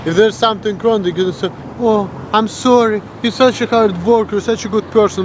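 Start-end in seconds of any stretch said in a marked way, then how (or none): 1.8-5.2 higher, lightly mocking sweetness; mock sympathy. American turning someone down with flattery, mildly mock-sympathetic. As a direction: soften a rejection with fake praise. Mimics insincere polite rejection.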